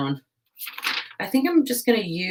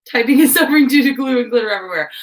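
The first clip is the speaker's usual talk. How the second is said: fast read-out; 6 semitones higher, 8 dB louder, faster than usual. Real, not acted. Reading chat comment aloud.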